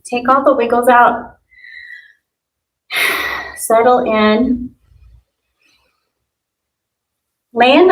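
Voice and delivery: calm, unhurried yoga guidance with pauses; guided meditation. Real, not acted. Yoga teacher settling students onto the ground, guided meditation. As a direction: settle them gently into stillness. Leads a Yoga Nidra practice.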